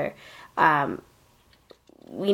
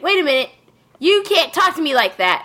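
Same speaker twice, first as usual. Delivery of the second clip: put-on indignant vampire girl; 8 semitones higher, faster than usual. Vampire girl voiced in retelling.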